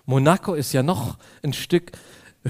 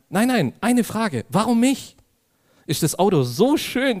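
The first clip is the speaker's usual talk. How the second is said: cheeky insistence; 7 semitones higher than usual. Retold or imitated. Pressing the policeman for reasons.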